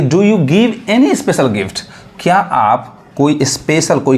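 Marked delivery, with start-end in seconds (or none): 0.0-1.8 slow, careful reading of the English sentence; reading example slowly. Shown as a demonstration. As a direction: read each word out slowly for learners. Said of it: "example देखिए कि". (धीमे-धीमे वाक्य पढ़ना)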